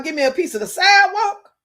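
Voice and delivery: half-serious replay of the stoned line; mock stoned plea.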